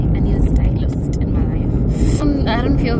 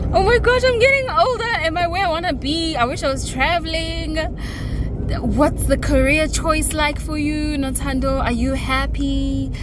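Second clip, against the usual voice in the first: high, panicky inner monologue; anxious inner voice; 5 semitones higher than usual. Retold or imitated. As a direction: replay the late-night spiral of worries. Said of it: "I was just thinking".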